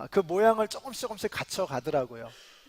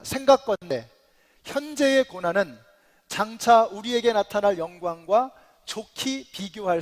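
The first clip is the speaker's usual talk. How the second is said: raised, deliberate scripture quote; confident declaration; 3 semitones higher, 4 dB louder than usual. Acted. Preacher quoting Paul on suffering and glory, confidently. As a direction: declare it with assurance, giving each phrase room. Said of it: "자신 있게 말씀하시는 겁니다".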